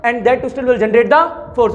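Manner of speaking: slow, spaced dictation. Shown as a demonstration. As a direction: read it out slowly for students to write. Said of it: "dictating notes slowly". (धीमे धीमे लिखवाना)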